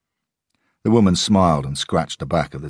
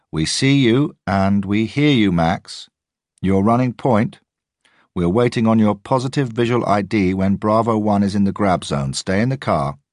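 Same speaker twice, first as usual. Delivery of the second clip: surveillance officer; 6 semitones higher, 5 dB louder than usual. A narrator's reading. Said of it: "the surveillance officer said to me".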